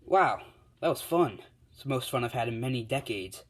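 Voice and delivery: delighted shout that calms down; thrilled. Acted. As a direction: whoop it out like a kid after a ride. Dragon boy thrilled after smashing villain.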